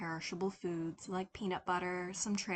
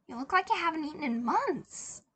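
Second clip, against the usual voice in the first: put-on concerned older lady; 8 semitones higher, 4 dB louder than usual. A narrator's reading. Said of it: "frowned in concern".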